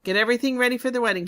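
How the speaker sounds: fast, loud and high bossy order; commanding order. Acted. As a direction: bark it out like an eager farmer. Farmer ordering wedding preparations.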